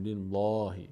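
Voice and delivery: "لیلهی" with a thin, light L. Shown as a demonstration. Teacher shows students Allah's L read thin, light L.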